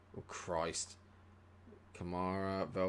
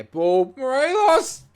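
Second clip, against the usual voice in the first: loud, much higher shout of the name; excited call; 15 dB louder, slower than usual. Real, not acted. Urging his striker on, an excited high shout. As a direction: yell the striker through on goal. Calling out attacking move.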